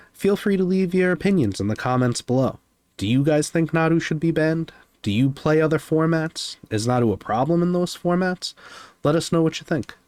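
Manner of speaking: high-pitched YouTuber sign-off, customer service style. Real, not acted. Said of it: "YouTuber voice I was waiting for".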